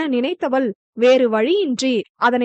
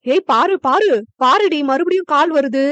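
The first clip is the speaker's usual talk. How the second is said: excited call; 3 dB louder than usual. Acted. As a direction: hurry the granddaughter over. Grandma calling out excitedly. (பேத்தியை அவசரமாக அழைக்கும் பாட்டி, உற்சாகமான குரல்)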